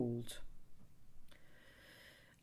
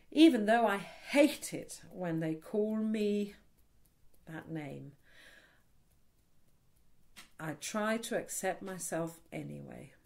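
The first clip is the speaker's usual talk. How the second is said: tapping setup statement. Shown as a demonstration. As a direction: say it with feeling, then settle. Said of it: "talk over me and use the word".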